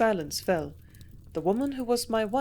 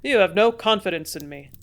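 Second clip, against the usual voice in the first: louder, aggrieved protest; dissatisfied protest; 8 dB louder than usual. A narrator's reading. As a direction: complain that she distrusts him. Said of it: "he protested with a dissatisfied air".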